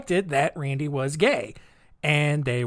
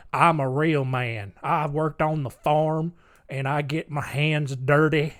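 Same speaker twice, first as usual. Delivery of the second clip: mock country tough man; 3 semitones lower than usual. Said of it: "country is just like".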